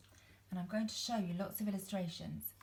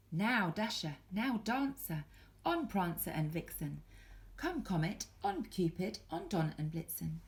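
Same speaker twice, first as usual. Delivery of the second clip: louder, rousing call to the reindeer; 4 dB louder than usual. Acted. Saint Nick shouting to his reindeer from the sleigh, calling out. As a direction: call each name out to the team. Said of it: "he whistled and shouted and called them by name".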